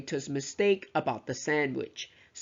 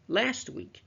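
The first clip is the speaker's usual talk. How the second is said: LAST WEEK lifted higher, set apart; single out "last week" with raised pitch; stress on LAST WEEK; 5 semitones higher than usual. Shown as a demonstration. Teacher emphasizes the time to students, stressing "last week". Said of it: "stress on the very last two words".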